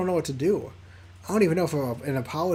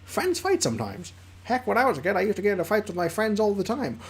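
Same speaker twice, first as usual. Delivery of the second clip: squeaky Liam voice; 3 semitones higher than usual. Acted. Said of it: "the squeaky voice I do for Liam".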